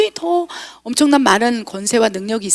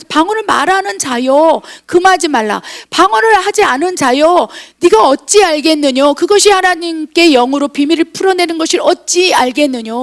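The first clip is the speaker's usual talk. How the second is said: preaching admonition; 4 semitones higher than usual. Acted. Declaims an admonishing scripture in God's voice.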